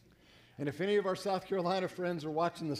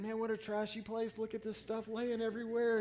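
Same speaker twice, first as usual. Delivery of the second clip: mock disgust; 5 semitones higher, 3 dB quieter than usual. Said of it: "And I'm thinking".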